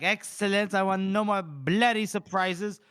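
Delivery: mock officer's brusque order; stern general. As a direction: declare it forcefully, drawing out the end. Acting out the general's reply.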